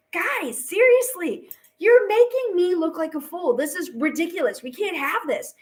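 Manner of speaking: mock-exasperated telling-off; exasperated scolding. Washington sits two fighting secretaries down, exasperated scolding.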